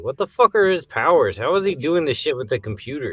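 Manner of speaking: annoyed viewer ranting about the show; annoyed exclamation. Retold or imitated. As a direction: vent your annoyance at the plot. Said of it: "I'm like".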